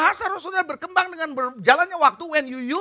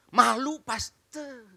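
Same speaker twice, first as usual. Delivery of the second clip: drawn-out, softer mock-shy voice; bashful objection; 3 semitones lower, 7 dB quieter, much slower than usual. Congregant objects to the pastor, drawn-out and bashful. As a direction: play a sheepish congregant, dragging it out.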